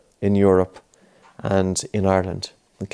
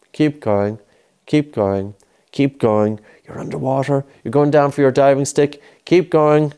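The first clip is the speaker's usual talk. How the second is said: raised pitch, energetic encouragement; urging on; 4 semitones higher than usual. Real, not acted. Coach urging a child underwater in a pretend dive, urging on. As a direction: spur them on to keep at it.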